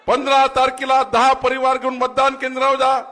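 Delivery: high, loud command to the crowd; rally shout. Real, not acted. Politician orders the crowd to the polling booths, shouting. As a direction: order them to the polls.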